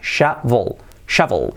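shovel sounded out, SHA-vol; uve bien marcada. Shown as a demonstration. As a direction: model "shovel" with a strong v. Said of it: "con la V bien marcada". (shovel con la uve bien marcada)

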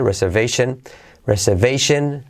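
"reservation" with the second R barely sounded; softened second R. Shown as a demonstration. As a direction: let the middle R of "reservation" almost vanish. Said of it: "se dice muy suavecito".

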